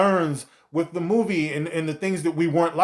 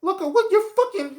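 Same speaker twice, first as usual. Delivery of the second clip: angry outburst. Real, not acted.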